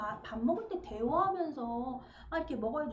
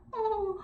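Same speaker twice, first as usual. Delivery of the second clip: a higher, drawn-out groan of tired pleasure; a little sigh-groan of an exhausted woman savoring rice; groan demo; 8 semitones higher, 4 dB louder, much slower than usual. Shown as a demonstration. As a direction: show the moan that slips out over good food. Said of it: "이 소리를 내는 거예요".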